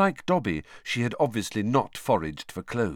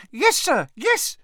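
high, loud, excited elf squeal; squealing house elf; 5 dB louder, slower than usual. A narrator's reading. Dobby voiced.

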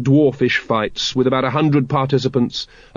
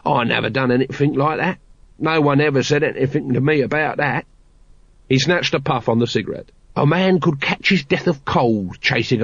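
a touch of a work-shy street guard, defensive; lightly voiced grumbling watchman. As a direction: grumble it like a reluctant old hand.

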